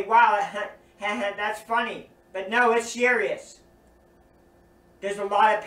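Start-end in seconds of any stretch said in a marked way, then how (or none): 0.0-2.1 laughing reaction. Pretend. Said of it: "you might be laughing and say".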